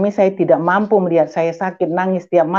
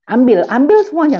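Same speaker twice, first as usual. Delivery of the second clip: high, louder emphatic insistence; emphatic refusal; 9 semitones higher, 6 dB louder than usual. Retold or imitated. Wife tells husband she wants nothing from him, emphatic refusal. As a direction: push it away, pitched up and forceful.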